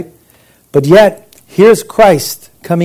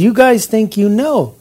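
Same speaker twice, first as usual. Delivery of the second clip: mildly mocking, pitched up at the start; quoted taunt, lightly mocking; 4 semitones higher than usual. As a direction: needle them lightly with mock challenge. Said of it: "mocking them to a certain degree".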